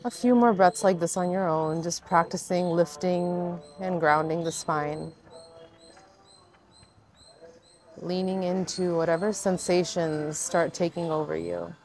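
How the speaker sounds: unhurried meditation guide, long pauses between cues; guided meditation. Acted. Yoga teacher guiding viewers into their breath, guided meditation voice. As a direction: lead gently through each breath, leaving space.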